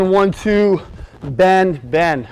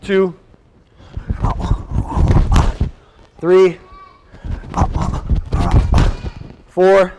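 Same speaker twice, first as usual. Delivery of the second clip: counting out punches at live speed; boxing coach calling combos; much slower than usual. Shown as a demonstration. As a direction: call each combo count sharply. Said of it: "live speed".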